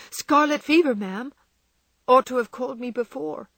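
a touch of a gruff cross doctor. A narrator's reading. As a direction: snap it out crossly. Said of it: "he said crossly".

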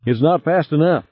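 high, anxious protest; alarmed. A narrator's reading. Passenger to pilot fleeing the explosives, high and alarmed. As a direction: complain in a high worried voice. Harry panics as sub races bomb.

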